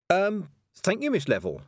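put-on hesitant thanks to an older witch; young witch. A narrator's reading. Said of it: "said the girl, bowing".

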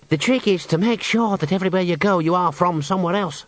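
singer Henry explaining. A narrator's reading. Henry explains his trick to the witches, character voice. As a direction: lay out the trick as the confiding singer.

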